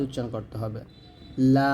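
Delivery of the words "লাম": লাম stretched long with a light l; thin letter demo. Shown as a demonstration. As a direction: hold লাম long, thin and low-placed. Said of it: "পাতলা করে". (পাতলা করে টানা লাম)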